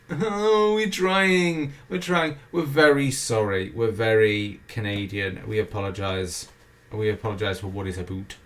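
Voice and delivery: mock-sorry Canadian voice; grovelling, falling apology; apologetic Canadian. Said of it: "And Kabam, they're like".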